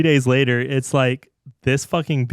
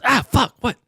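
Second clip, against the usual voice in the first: sudden high alarmed yelp; startled yelp; 12 semitones higher than usual. Retold or imitated. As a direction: jolt up in shock. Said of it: "She goes".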